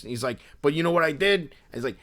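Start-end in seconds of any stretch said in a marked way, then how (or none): 0.6-1.4 high-pitched, cocky imitation of the guy; intense Philly dude. Seller bragging to a stranger, lightly voiced Philly dude. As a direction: set up a boast as a Philly dude. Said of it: "the impression that I was doing of him".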